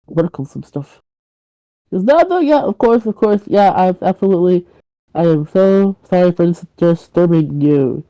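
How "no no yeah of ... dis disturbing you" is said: flustered apology. Acted. Nervously apologizes to neighbour at door.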